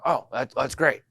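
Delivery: high, slow mock delight; retold pleased surprise. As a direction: act out a man's sudden approval. Man turns friendly on hearing party.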